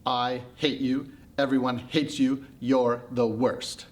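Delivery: slow, deliberate, kindly meant abuse; sincere mock insults. Pandora cheering up the haircut with insults, earnestly. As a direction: deliver insults slowly as if consoling.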